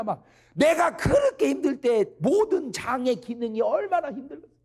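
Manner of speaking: high, loud health exhortation; impassioned preaching. Real, not acted. Preacher warning the congregation about overeating, impassioned and high.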